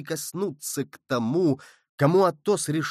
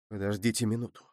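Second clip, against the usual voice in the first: softer, confiding aside; quietly; 4 semitones lower, 6 dB quieter, much faster than usual. A narrator's reading. Aramis murmurs to d'Artagnan, quiet. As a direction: lean in and keep it low. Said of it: "проговорил тихо Арамис".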